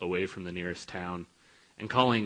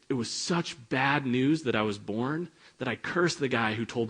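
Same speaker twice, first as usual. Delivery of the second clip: higher, mock-anguished lament; despairing prophet; 4 semitones higher than usual. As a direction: wail it like a hammed-up despairing prophet. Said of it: "and he's like".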